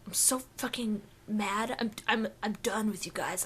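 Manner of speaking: lightly voiced sulky emo guy; emo anime guy. Podcaster playing a fed-up emo anime guy, mock-mad. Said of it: "like an emo anime guy".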